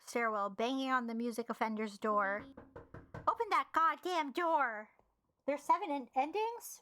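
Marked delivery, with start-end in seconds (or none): 0.1-2.4 even, lower-pitched reading of a game story; story narration. Acted. Reading the game's story to viewers about a desperate tenant, measured narration. 3.3-4.9 mildly raised, indignant yell; angry demand. Acted. Angry tenant banging on the music offender's door, mock-angry demand.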